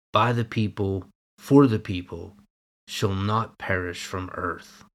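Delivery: measured, solemn oration with weighty pauses; formal speech recitation. Acted. Preacher reciting Lincoln's Gettysburg Address to his congregation, solemn oration. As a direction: deliver it like a historic address.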